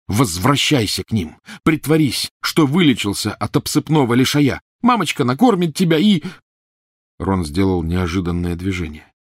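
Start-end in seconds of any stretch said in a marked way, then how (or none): 0.1-6.2 high, loud mocking shout; mock him as you shout; furious sarcasm. A narrator's reading. Harry shouting Ron away, loud mocking fury.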